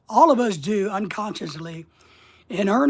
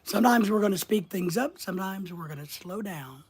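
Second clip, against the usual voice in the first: varying pace; 3 dB quieter than usual. Shown as a demonstration. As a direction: speed up then ease off. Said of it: "Do you vary your rate of speaking?".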